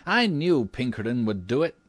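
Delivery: put-on high, exultant young man's cry; acted triumph, pitched well up; triumphant exclamation. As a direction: crow it proudly to an admiring family. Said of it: "he exclaimed triumphantly".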